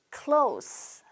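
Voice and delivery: "close" ending in an unvoiced s; s sound. Shown as a demonstration. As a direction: repeat "close" for the class with a hissed s. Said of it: "close가 아니라 따라하세요".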